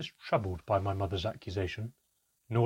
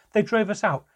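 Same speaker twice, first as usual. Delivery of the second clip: loud, high-pitched angry yell; child's enraged outburst at a parent; furious shouting; 12 semitones higher, 10 dB louder than usual. Acted. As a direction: shout it like a blow landing. Child attacking father, shouting.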